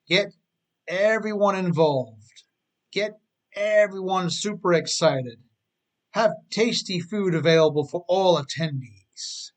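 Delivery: rally the staff with big energy; enthusiastic. Shown as a demonstration. Boss hyping up the staff, excited. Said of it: "with extreme enthusiasm".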